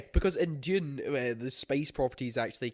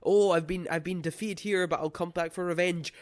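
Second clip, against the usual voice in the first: lightly hammed-up villain, pitched higher; mock defeated villain vowing revenge; cartoon villain; 4 semitones higher than usual. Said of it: "where the villain's like".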